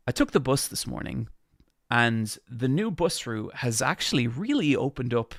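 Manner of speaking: crisp video-essay narration, every syllable enunciated; clear, deliberate YouTube narrator delivery; YouTuber narration voice. Shown as a demonstration. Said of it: "if I talk like that".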